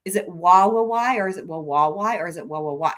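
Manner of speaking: why split into wah, wah, why with shifting stress; playful syllable test on why; trying syllables of why. Shown as a demonstration. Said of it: "which syllable".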